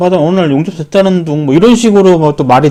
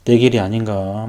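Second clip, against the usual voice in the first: much softer, low self-doubt; despairing inner doubt; 3 semitones lower, 7 dB quieter, slower than usual. Retold or imitated. 용접이 안 되어 자책하며 낮고 작게. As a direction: let it sink into a low, defeated murmur. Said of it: "그러고 있으면은".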